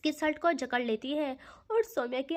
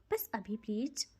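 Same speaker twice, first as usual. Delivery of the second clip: breathy whispered plea, much softer; pleading whisper; 4 semitones lower, 5 dB quieter than usual. Acted. Soumya whispering a plea to drunk Ridhi. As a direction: beg her gently under your breath.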